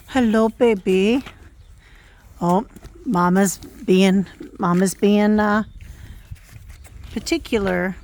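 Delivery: loud cooing at the foal. Real, not acted. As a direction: coo it out eagerly.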